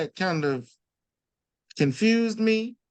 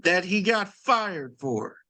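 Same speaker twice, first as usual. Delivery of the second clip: indignant; 7 semitones higher, slower than usual. Real, not acted. Indignant retort.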